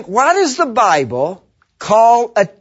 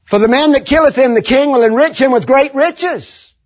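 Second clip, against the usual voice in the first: proclaiming; 7 semitones higher than usual. Acted. King's offer read with force.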